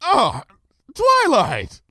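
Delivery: high hearty call; bright shouted greeting; shouting back. A narrator's reading. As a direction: hail her cheerily over the strain. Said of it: "Luna shouted back".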